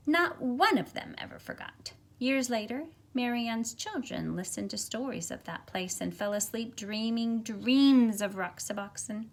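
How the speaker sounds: put-on lively, expressive read-aloud for children; storybook reading. A narrator's reading. Teacher reads picture book aloud.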